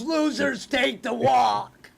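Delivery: slow drawn-out mock Farley line; slow, hammed-up Farley quote; Chris Farley. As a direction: stretch it out like a dopey jock. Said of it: "Chris Farley ... he goes".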